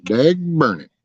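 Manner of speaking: "Dag burn it" with "Dag" jumping high; high exclamation. Acted. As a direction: pop "Dag" up high as a mock curse. Mock cursing, said twice.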